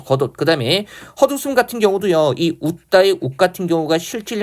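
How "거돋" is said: 겉옷 with ㅌ turned to d: 거돋; representative sound, linked. Shown as a demonstration. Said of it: "대표음 디귿으로 발음한 다음에".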